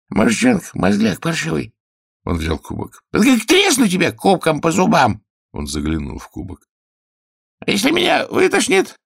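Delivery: high, loud capricious king; whiny king. Acted. King inspecting the healer's knees and teeth, high and loud. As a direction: play a petty tyrant poking at his healer.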